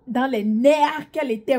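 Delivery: ordinary delivery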